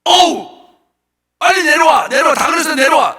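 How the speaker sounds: 높고 크게 부르는 친구 흉내; 밑에서 위를 향해 내려오라고 외치듯; 소리쳐 부르기. Acted. (위에 대고 크게 외치는 흉내)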